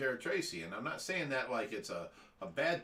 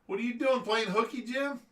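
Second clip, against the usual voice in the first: teasing; 8 semitones higher than usual. Real, not acted. Teasing a viewer who's working.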